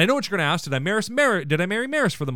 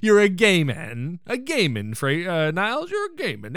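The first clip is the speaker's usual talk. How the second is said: odd gay man delivery. Retold or imitated. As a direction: drag out "you're a gay man" in a lightly hammed-up way. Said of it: "the way he says gay man is weird".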